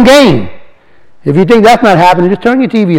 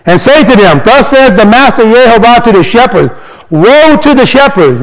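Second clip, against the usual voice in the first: scripture reading; 3 semitones higher than usual. Acted. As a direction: read the verse like a proclamation. Reads scripture aloud.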